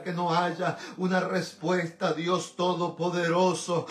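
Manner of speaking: earnest, pleading intercessory prayer; fervent prayer. Real, not acted. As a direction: pray in rolling phrases, calling on God throughout. (oración ferviente de intercesión)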